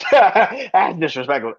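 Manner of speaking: slow, laughing through the words; amused disbelief, chuckling. Real, not acted. Laughing at the comparison.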